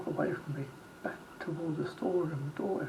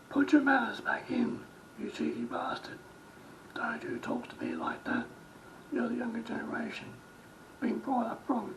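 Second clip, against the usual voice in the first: higher-pitched indignant scolding; angry retold rant; 7 semitones higher than usual. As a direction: imitate an outraged customer's tirade. Overheard customer's rant retold.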